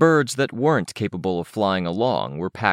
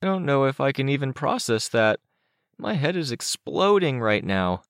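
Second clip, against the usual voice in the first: put-on higher, boyish character voice; overwhelmed Chicken Little; 8 semitones higher than usual. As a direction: pitch it up like a flabbergasted kid.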